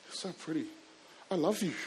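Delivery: put-on a softly whispered teen crush; awestruck whisper. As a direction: whisper it to her, lovestruck. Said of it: "looking at her and going".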